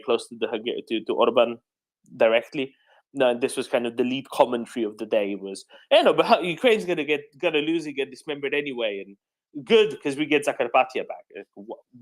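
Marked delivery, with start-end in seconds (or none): 5.9-11.2 high sneering mimicry; mocking quote. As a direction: mimic their smug line. Mocking pro-government commentary.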